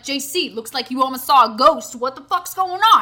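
loud guy voice, rising at the end; mock a male friend's loud concern; imitating the guys. Storyteller voicing her friend checking on her, mock guy-talk. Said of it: "all these guys talk like this".

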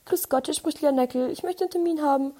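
sweet-as-pie caller asking for an appointment; a put-on friendly telephone voice; polite phone voice. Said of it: "war so".

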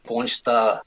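casual Dutch-accented English; Amsterdam accent. Shown as a demonstration. Actor teaching how to build American, Amsterdam accent. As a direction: demonstrate a loose Amsterdam accent. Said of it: "type of Amsterdam accent".

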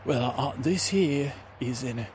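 lightly voiced friendly adventurer; a hint of a lilting oddball; Kiwi Shavers character. Adventurer showing his recorder to the ranger, lightly put-on voice.

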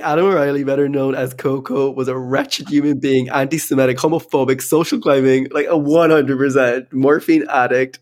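hamming it up like a Tinder profile; mock dating bio. Shown as a demonstration. Reading her list back to her friend, amused. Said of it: "sounds like my new Tinder bio".

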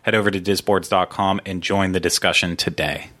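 practised podcast intro read; sponsor read. Real, not acted. Host reads show credits and sponsors, announcer read.

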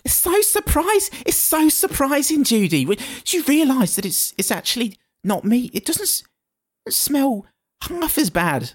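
put-on Bethany's accent. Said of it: "last character I'm doing with an accent".

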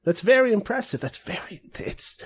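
high-pitched, friendly grandpa voice; friendly old man. Acted. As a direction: play a kindly old man, pitched well up. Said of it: "he's like an old man".

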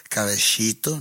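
Colombian accent. Shown as a demonstration.

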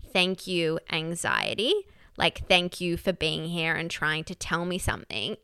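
quiet, gentle thanks to anxiety; soft thank you. Retold or imitated. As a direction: say it softly, lowering the voice. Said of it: "So I would just say".

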